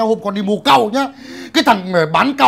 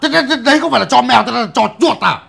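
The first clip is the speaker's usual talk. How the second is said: mocking retort; 4 semitones higher, 4 dB louder, faster than usual.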